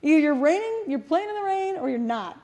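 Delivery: retold indignant refusal; exasperated retort. Mother refusing to sit through rainy practice, exasperated. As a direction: start high and emphatic, then settle into refusal.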